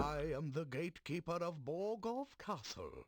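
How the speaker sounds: vaguely British villain voice; a posh British gatekeeper; British-sounding accent. Acted. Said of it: "It's more British than anything else".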